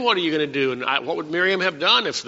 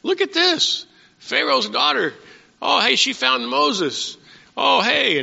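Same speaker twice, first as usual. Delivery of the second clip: put-on much higher, curious girl's voice; a nosy little sister peeking, pitched way up; Miriam thinking; 9 semitones higher than usual. Preacher voicing Miriam watching Pharaoh's daughter, high and curious. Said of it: "Miriam's thinking".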